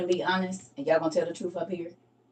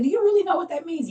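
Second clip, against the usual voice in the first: challenging question; 10 semitones higher, 4 dB louder than usual. Retold or imitated. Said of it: "I said".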